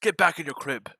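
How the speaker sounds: high, loud mock Middle Eastern accent. Joking to his friend about the son, mock Middle Eastern accent. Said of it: "Middle Eastern accent when I said that".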